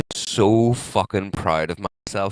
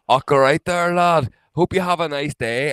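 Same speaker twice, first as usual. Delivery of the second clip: louder and higher, breezy cheerful greeting; friendly conductor; 5 semitones higher, 7 dB louder than usual. Retold or imitated. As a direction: hail the passenger like a cheery railway lad. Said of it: "and he's like".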